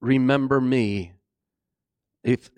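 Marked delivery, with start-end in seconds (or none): 0.0-1.1 humble plea. Acted. Criminal turning to Jesus, humble plea. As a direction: ask it humbly, voice lowered. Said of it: "He looked at Jesus and said".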